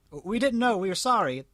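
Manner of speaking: high, pleading mob voice; apologetic crowd. A narrator's reading. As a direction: pitch it up as a sorry crowd.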